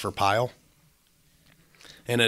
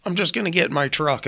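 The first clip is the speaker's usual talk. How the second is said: mocking a quitter; 13 semitones higher than usual. Mocking a lazy welder quitting.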